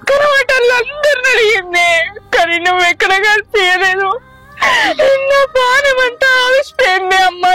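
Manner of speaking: speaking through tears, voice catching; weepy daughter pouring out her grief; tearful pleading. Acted. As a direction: plead with the mother while crying. Daughter weeps over lost mother.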